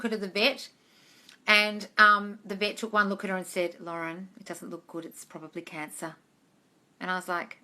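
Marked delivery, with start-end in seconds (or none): 3.8-6.2 soft, low, grave delivery of bad news; a vet breaking bad news gently and softly; quiet grave vet. Vet telling owner her cat may have cancer, soft and grave.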